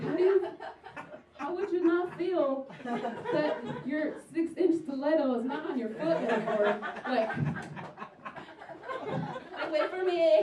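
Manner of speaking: disbelieving question; incredulous. Retold or imitated. Incredulous at drunk girl.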